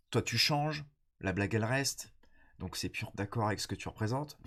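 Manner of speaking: stuffy nose from a cold; blocked nose. Real, not acted. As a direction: talk through a blocked nose. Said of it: "j'ai le nez bouché".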